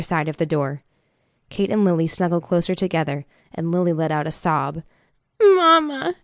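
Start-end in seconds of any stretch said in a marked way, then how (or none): 5.4-6.1 put-on high, loud child's cry for mother; frightened little girl. A narrator's reading. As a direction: call out like a scared small child. Sobbing child calls for mother.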